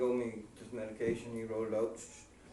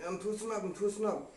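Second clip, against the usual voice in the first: barely able to talk; 7 semitones higher than usual. Retold or imitated. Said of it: "couldn't ha-, barely talk".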